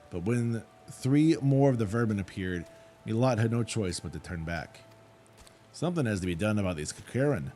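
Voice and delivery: put-on reading the wrangler with a creeping rustic accent; a light put-on rural accent that grows toward the end; slight rustic accent. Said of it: "I kinda started getting a little accent there at the end".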